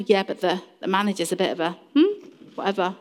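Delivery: low, confidential mock-gossip murmur; acted gossip. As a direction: imitate someone sliding into grumbling about a colleague. Acts out slipping into workplace gossip.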